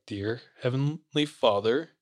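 retold faltering start to a prayer; struggling to speak. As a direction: re-enact words that will barely come. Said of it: "I was struggling to say words".

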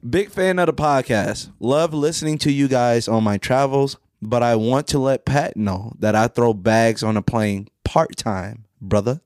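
slow, low mock menace toward the end; deliberate, playfully menacing read-out; mock threatening. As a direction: read a friendly message as a measured threat. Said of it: "in a threatening voice".

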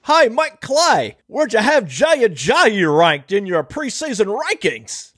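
a clumsy British caricature, put on for laughs; awful mock British accent; bad British accent. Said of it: "your British Ajayi voice".

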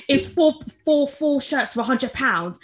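imitated impatient correction, high and loud at first; rude customer. Customer correcting a salesperson's total, retold rude impatience. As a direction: hammer out the repeated number like an irate caller. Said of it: "he was so rude".

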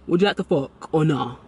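matter-of-fact mimicked proposition; imitating blunt guy. Repeating exactly how the guy asked, lightly imitated bluntness. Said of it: "That's literally how he said it".

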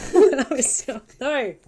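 real giggles breaking into the sentence; laughing. Real, not acted. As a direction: try to read on but crack up. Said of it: "I'm not laughing at this person".

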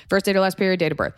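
mock bored clerk reading the form again; weary rote recitation. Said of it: "even though it's been written down several times".

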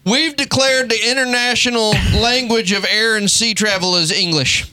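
hammed-up proud decree; a touch of swaggering bravado; mock brash American. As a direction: announce it like you own the world. Mock American declaration to world.

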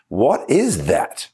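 slow, with the weight on "is"; stress on is. Shown as a demonstration. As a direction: lean into "is", drawn out. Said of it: "the emphasis on the word is".

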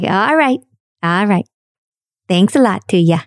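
dad's folksy Southern Indiana phone voice; Southern Indiana accent. Retold or imitated. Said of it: "The people in Southern Indiana".

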